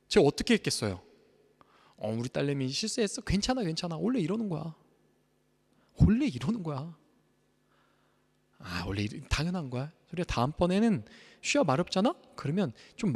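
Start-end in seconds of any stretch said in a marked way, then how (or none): 2.0-9.9 gentle comforting. Pretend. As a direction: soothe her like a loving dad. Father comforting daughter after accident.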